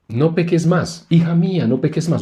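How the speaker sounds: a hint of a self-righteous Pharisee lecturing. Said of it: "un fariseo, al decir".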